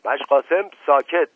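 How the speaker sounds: high, loud order for silence; angry shout. A narrator's reading. Officer silencing Mash Qasem for interrupting, shouted. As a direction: cut him off with a shout. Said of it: "نایب فریاد زد".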